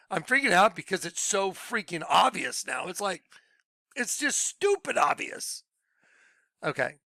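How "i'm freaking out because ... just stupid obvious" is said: exasperated disbelief, pitch jumping up at the end; freaking out. Real, not acted. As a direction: marvel at how obvious it is.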